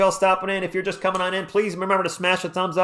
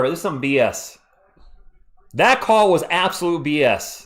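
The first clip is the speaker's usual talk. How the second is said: annoyed rant. Real, not acted. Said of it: "I'm on a rant here".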